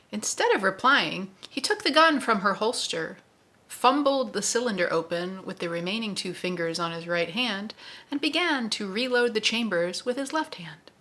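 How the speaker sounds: read-aloud excerpt, figures lightly voiced; story narration with voices. A narrator's reading. Host reads Roland and Susanna to listeners, story narration. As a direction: perform the novel scene for the book club.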